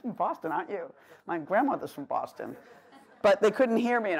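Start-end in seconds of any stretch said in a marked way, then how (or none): 0.0-0.9 lightly mimicked know-it-all; mock knowing tag question, a touch softer; self-satisfied guesser. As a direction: imitate someone pleased with their clever guess. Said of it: "People always think they're so brilliant".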